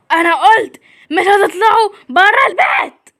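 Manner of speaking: shouted angry order with a crying edge. Acted. Dad forbids the girls to leave, angry shout. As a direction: bellow the order.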